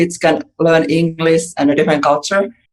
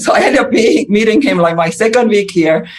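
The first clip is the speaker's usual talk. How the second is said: laughing; 5 semitones higher than usual. Real, not acted. Laughing at meeting husband.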